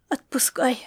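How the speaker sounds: soft, breathy, resigned; sighed whisper. Acted. Grandma gives up, sighing. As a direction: breathe it out in surrender. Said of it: "вздохнула Маришка".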